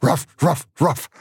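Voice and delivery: barking like a dog. A narrator's reading.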